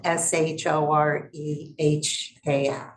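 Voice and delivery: put-on spelling out Shoreham in a light New York accent; letters drawled a little in New York style. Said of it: "With my New York accent".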